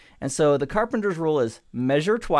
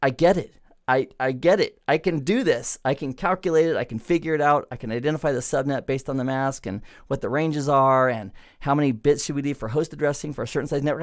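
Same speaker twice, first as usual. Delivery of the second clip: excited paraphrase. Retold or imitated. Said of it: "again, my, my paraphrase".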